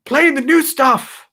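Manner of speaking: high, loud mock rock-star snap; a singer. Singer shouting back at the crowd, high mock voice. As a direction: fire it back like an irritated old singer. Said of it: "And he's like".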